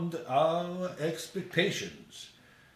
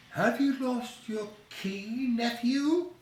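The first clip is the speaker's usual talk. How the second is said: put-on old Scrooge voice; 7 semitones higher than usual. Scrooge greets Fred at door.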